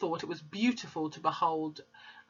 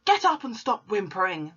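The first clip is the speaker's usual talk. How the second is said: mild bark; 4 semitones higher, 4 dB louder than usual. Acted. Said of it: "the Trunchbull barked".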